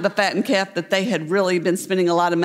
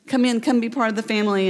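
eager coaxing; 2 semitones higher, faster than usual. Acted. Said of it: "Can you hear the father saying".

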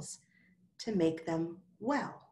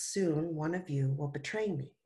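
sad; 2 semitones lower than usual. Acted. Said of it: "Jesus sadly told".

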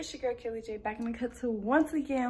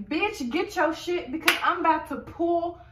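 put-on angry girl; 2 semitones higher, 4 dB louder than usual. Skit, angry about baby father.

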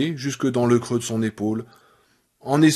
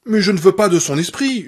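loud, higher furious cry; shouting; 5 semitones higher, 4 dB louder than usual. Acted. Annie shouting at Paul that she wants Misery back. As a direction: scream the refusal at him. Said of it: "hurla-t-elle".

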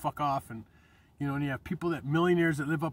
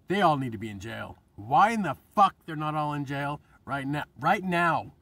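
louder, heated rant; angry rant; 5 dB louder than usual. Real, not acted. Vlogger venting about jailing politicians, loud and heated. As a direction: push it out in outrage.

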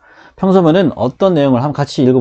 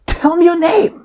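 much higher, emphatic exclamation; with feeling; much slower than usual. Shown as a demonstration. Teacher demonstrates an exclamatory command to students, high and emphatic. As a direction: throw real emotion into the command. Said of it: "이렇게 하면 느낌이 들어갔죠?".

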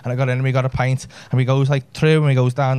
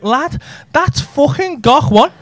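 excited insistence; 11 semitones higher, 4 dB louder, much slower than usual. Retold or imitated.

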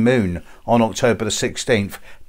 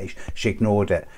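usual speaking voice

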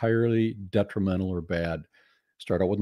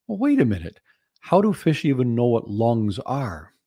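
wait a minute. Real, not acted. Objecting to the fish story.

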